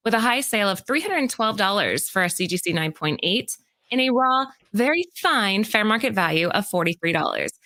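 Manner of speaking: even, presenter-style read; scripted list read. Acted. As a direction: read out the countdown entry to the audience. Reads prepared list segment.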